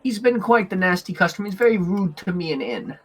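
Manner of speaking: lightly voiced elf, high start easing down; a hint of a fretful elf woman; small elf woman. Elf woman pleads about nasty customer.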